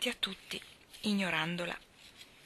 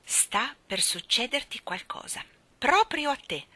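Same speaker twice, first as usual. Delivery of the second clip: menacing; 5 semitones higher than usual. Acted. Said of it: "disse in tono minaccioso".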